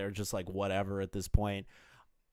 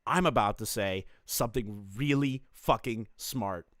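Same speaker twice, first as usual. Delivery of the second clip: mock self-satisfied inner voice, spaced out; deliberate, mock-smug build-up to "smart"; imagined smugness. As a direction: imitate a man savoring his own cleverness. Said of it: "That smug ass look".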